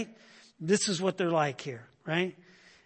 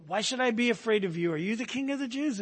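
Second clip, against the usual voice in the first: disbelief; 5 semitones higher, faster than usual. Shown as a demonstration. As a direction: voice pitched higher, incredulous and scoffing. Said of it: "should really be read with a tone of disbelief".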